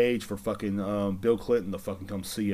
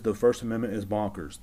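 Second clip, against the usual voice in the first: attempted British accent, quoting the prince. Podcaster quoting Prince Harry on the First Amendment, attempted British accent. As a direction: put on your best amateur British accent. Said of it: "my best British accent right there".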